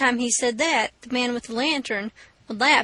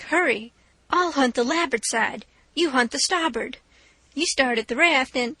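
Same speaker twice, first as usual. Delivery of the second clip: put-on urgent boy. Huck urges Jim in the dark.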